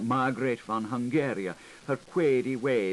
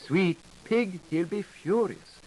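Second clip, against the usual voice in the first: mock voice; 9 semitones higher, 4 dB louder than usual. Issy voices another figure.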